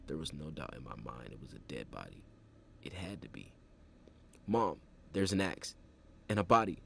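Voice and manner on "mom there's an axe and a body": high, loud frightened pleading; a scared kid begging mom for help; terrified child calling to her mother; panicked whimper. A narrator's reading. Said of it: "I remember whimpering to her".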